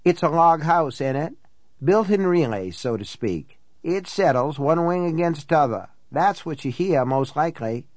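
lightly voiced folksy housekeeper; a hint of a country housekeeper; local housekeeper. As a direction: explain it away like a practical local woman. Housekeeper explains the noises.

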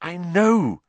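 high, urgent, a touch breathless; panting. A narrator's reading. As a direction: pant it out insistently. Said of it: "Harry panted".

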